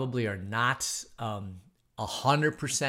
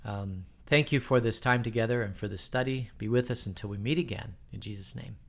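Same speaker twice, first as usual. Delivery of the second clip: closing prayer. Real, not acted. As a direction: pray for the leaders sincerely.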